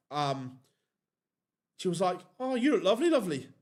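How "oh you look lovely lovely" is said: higher, louder imitation of a Yorkshire lady's compliment; a fond mock Yorkshire accent. Joe Cullen's wife greeting them, imitated in a Yorkshire accent. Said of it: "in that Yorkshire accent".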